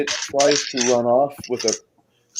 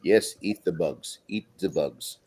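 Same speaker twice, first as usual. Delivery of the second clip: low, hushed demonic voice in the head; a hissing demon urging you on; demonic whisper; 7 semitones lower, 6 dB quieter than usual. Acted. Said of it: "you hear a demonic voice in your head".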